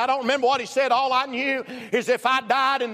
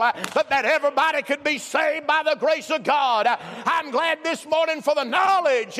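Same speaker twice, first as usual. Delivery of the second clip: full-force preaching; 2 semitones higher than usual. Real, not acted. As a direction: proclaim it to the whole congregation with punched phrases.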